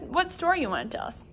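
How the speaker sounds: unvoiced whispered question. Teacher whispering a question to puppet Robert.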